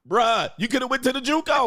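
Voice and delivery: high, incredulous bruh; exasperated. Real, not acted. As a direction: pitch jumps way up in disbelief. Exasperated scolding of the CEO.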